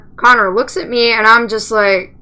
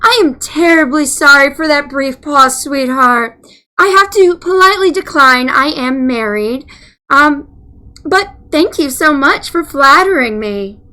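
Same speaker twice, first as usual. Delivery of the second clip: polite phone agent. Retold or imitated. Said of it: "I'm like".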